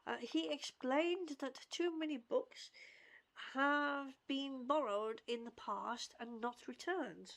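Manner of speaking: measured read-aloud of a character's lines; lightly performed storybook-style read; reading dialogue aloud. Acted. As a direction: read it out with careful, lightly acted phrasing. Reads game character's dialogue aloud.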